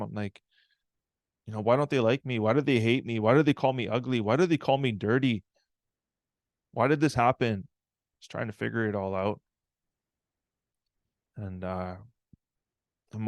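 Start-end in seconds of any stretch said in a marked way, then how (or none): 1.6-7.7 acted upset questioning. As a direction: plead with Mom in mounting hurt questions. Upset child pleading with mom.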